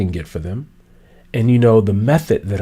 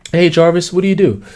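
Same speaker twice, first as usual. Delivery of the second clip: casual asker; 5 semitones higher than usual. Acted. Acted networking question, higher.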